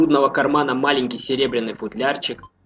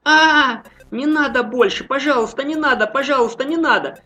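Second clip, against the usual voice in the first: wailing plea; 11 semitones higher than usual. Acted. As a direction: wail for mercy in terror. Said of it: "запричитал Гера".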